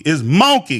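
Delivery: "monkey" said loud and a little high, New Orleans way. Shown as a demonstration. Correcting his friend on how to say monkey. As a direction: land hard on "monkey" to correct it. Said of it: "It's not no monkey".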